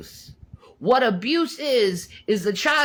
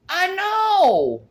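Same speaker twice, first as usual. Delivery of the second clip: a higher, louder burst of agreement; emphatic agreement; 7 semitones higher, 5 dB louder than usual. Real, not acted. Agreeing hotly with a viewer, louder and higher. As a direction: snap back yes, absolutely.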